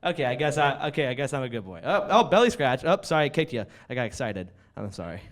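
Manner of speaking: lightly voiced bashful dog; a hint of excitable talking dog. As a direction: play a coy pup giving in. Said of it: "my impersonation of a dog".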